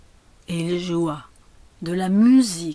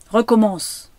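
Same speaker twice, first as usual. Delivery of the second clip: loud, raised command; crying out; 4 semitones higher, 8 dB louder than usual. A narrator's reading. Lady ordering the child to start over, crying out. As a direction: order it sharply, high and loud. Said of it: "cria encore la dame".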